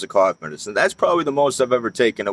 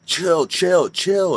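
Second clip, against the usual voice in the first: put-on girlfriend calming him; 7 semitones higher, much slower than usual. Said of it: "And she's like".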